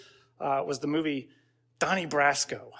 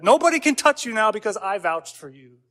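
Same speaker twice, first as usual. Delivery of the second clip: lightly voiced mob boss, raised pitch; half-hearted movie mobster impression, vouching firmly; Al Pacino; 3 semitones higher, 4 dB louder than usual. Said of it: "that's my Al Pacino impression".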